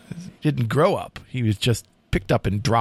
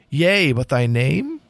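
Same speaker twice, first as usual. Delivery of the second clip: dramatic poem reading. A narrator's reading. Host reads the final lines to co-host, dramatic poem reading. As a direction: read the tale as solemn storytelling verse. Reads poem's ending aloud.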